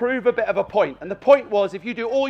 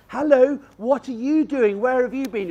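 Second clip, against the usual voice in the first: put-on talking to a small child; 3 semitones higher than usual. Shown as a demonstration. Trainer shows how to greet a young dog, in cooing baby talk. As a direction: coo at the dog like a toddler. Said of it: "like you're talking to a small child".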